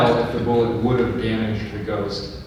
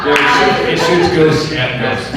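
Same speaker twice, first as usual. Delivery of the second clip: laughing; 6 dB louder, much slower than usual. Real, not acted. Laughing at own joke.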